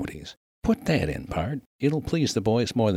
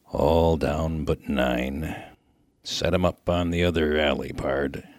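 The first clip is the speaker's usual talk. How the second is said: stumped miner; 4 semitones lower than usual. Acted.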